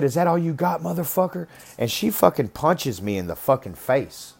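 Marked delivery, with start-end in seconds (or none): 0.0-1.5 high, biting taunt; taunting challenge. Retold or imitated. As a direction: dare him, goading and fierce. Lover taunts him during rough sex.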